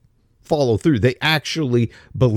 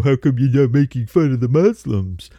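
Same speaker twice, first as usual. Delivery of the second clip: mock virtue signaling; 2 semitones lower than usual. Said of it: "go on social media and virtue signal".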